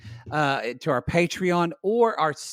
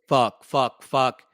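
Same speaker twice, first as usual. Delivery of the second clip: cursing; 2 semitones lower, 4 dB louder, much slower than usual. Retold or imitated. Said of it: "you just hear Shane say".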